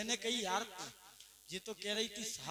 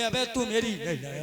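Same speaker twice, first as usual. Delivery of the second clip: angry stammer; 2 semitones lower, 3 dB louder than usual. Retold or imitated. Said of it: "बड़े गुस्से में बोला".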